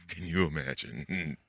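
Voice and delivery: cracking up while talking; real laughter bubbling over; laughing. Real, not acted. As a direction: laugh through the words, breaking up at the end. Cracks himself up at the idea.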